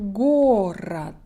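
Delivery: "Город" as GO-ruht, first O full; teacher's "Город", stressed first syllable, weak second vowel; schwa after stress. Shown as a demonstration. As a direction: model "Город" slowly, second O reduced to uh. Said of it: "is also a schwa sound".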